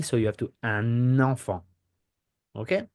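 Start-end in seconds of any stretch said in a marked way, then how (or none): 0.6-1.6 un enfant with the N carried into enfant; French liaison demo. Shown as a demonstration. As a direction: run the N of un into enfant. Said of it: "You see the N".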